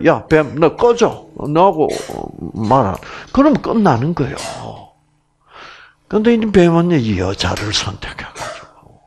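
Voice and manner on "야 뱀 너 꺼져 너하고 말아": mock dismissive brush-off. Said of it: "그렇게 버리면 어떡해?".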